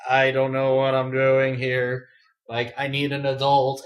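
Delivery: put-on slow, sheepish drawl of a lost kid; mock awkward helplessness. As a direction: play it helpless and awkward, dragging the words. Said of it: "trying to be all, as awkward as I can".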